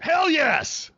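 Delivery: a sudden high burst of glee; excited. Real, not acted. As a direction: pop up in delight at the answer. Enthusiastic agreement with co-host.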